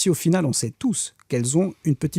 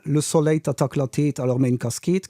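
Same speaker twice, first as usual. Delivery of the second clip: put-on Luxembourgish accent. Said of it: "l'accent luxembourgeois".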